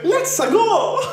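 high, drawn-out Italian catchphrase; cartoon Italian plumber. Arguing the plumbers are Italian, high cartoon Italian accent. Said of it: "They go".

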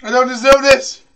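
rising protest. Real, not acted. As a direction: protest it with some force. Second take, building up.

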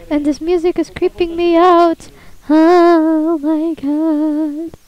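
creeped out. Real, not acted. Player reacts to creepy music, loudly creeped out. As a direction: let the unease swell into a slow oh my God.

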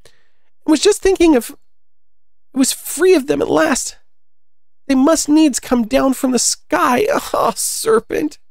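very high, drawn-out mock shriek; high storybook screech, stretched out; shrieking pigeon. A narrator's reading. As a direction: rail in a piercingly high bird voice. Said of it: "raising its voice to a shriek".

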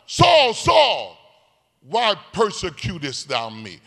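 high, loud calling out; voice of Jesus. Retold or imitated. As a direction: call from heaven to Saul. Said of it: "you know the dialogue".

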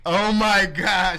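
loud, high, drawn-out gasp of awe; playful starstruck cry; mock amazement. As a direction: stretch it out, hammed-up. Hammed-up amazement at angel joke.

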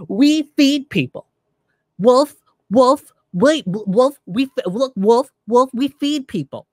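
imitating a politician caught out and panicking; mocking Pelosi freaking out. Mocking the politician answering the anchor, high and flustered. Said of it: "she starts freaking out and she goes".

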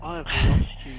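shout. Real, not acted. Friend lost in dark game.

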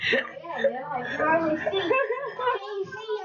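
put-on old man voice. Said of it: "the old man impression".

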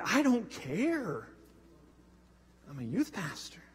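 very slow, soft, far-off shrug; hushed dazed indifference; numb indifference. Retold or imitated. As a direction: drift through it like nothing matters. Quoting his numb inner voice.

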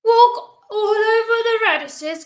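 high-pitched storybook grumble; put-on gardener's accusing grumble; grumbling gardener. A narrator's reading. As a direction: complain to the culprit, voice pushed up. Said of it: "grumbled the gardener".

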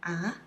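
short "Ah" rising from low; second tone. Shown as a demonstration. Teacher repeats second tone for learners, rising "Ah". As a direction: start "Ah" low and lift it. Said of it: "second tone".

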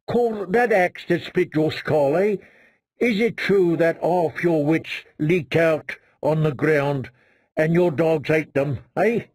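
lightly voiced gloomy needling; mocking Ed. Dolorous Ed needling Chet with dry, gloomy jokes.

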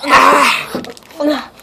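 sour yelp. Real, not acted. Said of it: "That's sour".

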